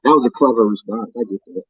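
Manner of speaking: muffled, cutting in and out; garbled phone line; underwater. Real, not acted. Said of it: "it sounds like you underwater right now".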